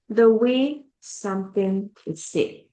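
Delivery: slow teacher definition; deliberate definition. Shown as a demonstration. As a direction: say it slowly, spelling out the definition. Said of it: "Tone means".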